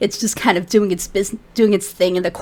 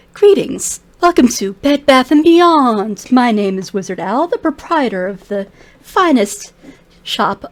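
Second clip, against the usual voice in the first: grand shopkeeper greeting; 3 semitones higher, 3 dB louder than usual. Acted. Wizard shopkeeper welcoming customers, grandly. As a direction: announce the shop like a proud proprietor.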